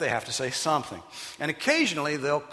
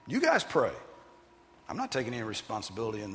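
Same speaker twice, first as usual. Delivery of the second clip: emphatic refusal; faster than usual. Retold or imitated. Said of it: "It's emphatic".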